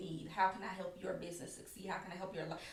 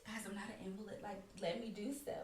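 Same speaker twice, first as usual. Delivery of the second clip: quiet protest; 8 dB quieter than usual. Retold or imitated. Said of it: "And I'm like".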